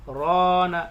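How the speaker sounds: loud राना alone after a stop; pause, then say राना; resume after pause. Shown as a demonstration. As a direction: restart with राना after the break. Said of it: "दो तीन second रुक के फिर पढ़ेंगे".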